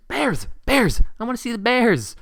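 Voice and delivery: high, loud, thrilled squeals; excited screaming. Acted. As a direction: shriek it like an overjoyed kid. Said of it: "as she screams".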